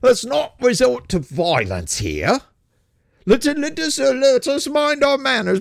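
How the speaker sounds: a hint of a cornered blowhard pleading for manners; backing down. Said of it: "start waving your hands going".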